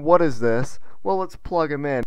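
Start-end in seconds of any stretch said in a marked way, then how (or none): 0.0-0.8 a light rising question, mimicking a curious viewer; mock viewer question. A gamer echoing his viewers' question, with a light questioning lift. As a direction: echo the viewer's puzzled "What is this?" with a lift at the end. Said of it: "You're asking".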